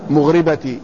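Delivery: مغربة said with an i after the ra, "mughribati"; ra with kasra. Shown as a demonstration. Teacher reads out the vowelled word for students, ra with kasra. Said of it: "وكسر الراء".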